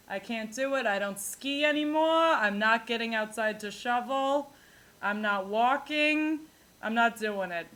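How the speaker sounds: light Long Island grandma complaining. Retold or imitated. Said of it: "And they're like".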